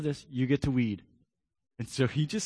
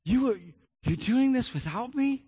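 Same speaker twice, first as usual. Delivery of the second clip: crushed little son; 7 semitones higher than usual. Retold or imitated. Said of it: "he was just crushed".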